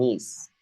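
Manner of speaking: "niece" drawn out with a long ee; correct pronunciation. Shown as a demonstration. Teacher showing student how it is pronounced, "niece" with long ee. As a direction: show how "niece" sounds, one syllable ending in s. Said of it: "This is pronounced niece".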